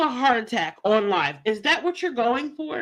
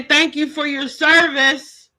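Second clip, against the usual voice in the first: mock grateful thanks; 4 dB louder than usual. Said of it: "you're supposed to say".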